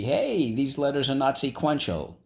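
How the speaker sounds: lightly voiced complaint; mock indignation. Teacher playing mildly shocked at letters out of order.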